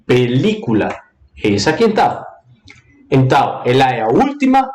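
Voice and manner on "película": PELÍCULA with weight on the second syllable, LI; stress on LI. Shown as a demonstration. Teacher confirming the tonic syllable, PELÍCULA stressed on LI. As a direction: lean on LI in PELÍCULA. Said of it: "Ah, é li".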